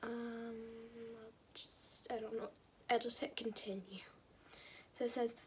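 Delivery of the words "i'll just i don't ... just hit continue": hushed, breathy whisper. Real, not acted. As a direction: whisper under your breath. Whispering to herself.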